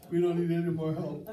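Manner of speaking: said through laughter; laughing. Real, not acted. Preacher joking with the congregation, laughing through it. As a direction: chuckle the words out.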